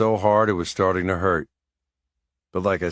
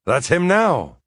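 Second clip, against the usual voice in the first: Seamus voice; 9 semitones higher, 4 dB louder, slower than usual. A narrator's reading.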